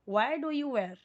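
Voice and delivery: "Why" said as "wai", no h sound; silent h. Shown as a demonstration. Teacher modelling correct pronunciation of why for students. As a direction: model "Why do you wear?" with a clean "wai". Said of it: "ये वाई pronounce करेंगे इसको वाई".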